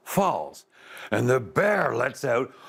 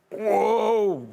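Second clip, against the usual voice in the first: high, loud startled whoa; startled yelp; 11 semitones higher, 3 dB louder than usual. A narrator's reading. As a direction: yelp as the paw grabs the coat. Man caught, yelps.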